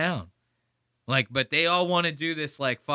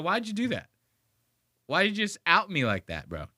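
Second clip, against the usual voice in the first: lightly voiced, higher exasperated Steve; mock exasperation; 5 semitones higher than usual. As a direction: play Steve fed up, a touch higher. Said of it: "I'd go".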